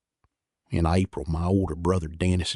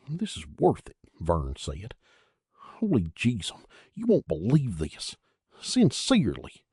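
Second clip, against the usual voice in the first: excited; 5 semitones higher than usual. Acted. Vern pleading excitedly.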